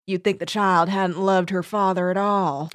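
catty Southern cousin gossiping; Southern accent. Acted. Cousin sniping at the funeral, Southern accent. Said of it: "That was an excellent accent".

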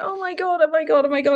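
a lightly acted rush of fan excitement; starstruck. Retelling meeting Alexander McQueen, mock starstruck gasps. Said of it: "so I went".

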